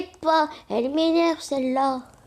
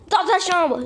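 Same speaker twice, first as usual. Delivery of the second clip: angry order; 3 semitones higher, 3 dB louder than usual. Acted. Mother sends her to her room.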